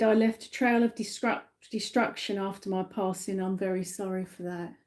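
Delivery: relayed softly, welling up; emotional apology. Retold or imitated. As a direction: pass on the apology quietly, holding back emotion. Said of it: "with a lot of emotion".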